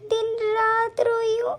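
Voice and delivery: tearful plea to her late mother; crying to mother. Acted. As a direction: let the tears break through the words. Bride cries to absent mother. (रोते हुए माँ से बात)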